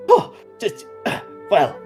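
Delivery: high, huffy little fairy; pixie voice. Acted. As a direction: insist in a tiny voice. Pixie Farum insisting.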